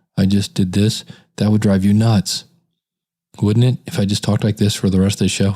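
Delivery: low-energy delivery. Speaker demonstrating how talking without confidence would sound, monotone, no energy. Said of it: "no energy".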